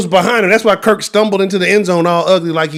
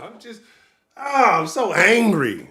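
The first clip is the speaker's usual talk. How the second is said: laughing through anger; 2 semitones higher, 6 dB quieter, slower than usual. Real, not acted. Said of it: "I'm still laughing".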